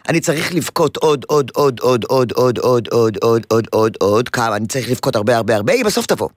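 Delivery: mock whine that drifts down and down; child's inner voice. Therapist voicing the toddler's plan to mother, lightly whiny. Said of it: "הוא אומר לעצמו".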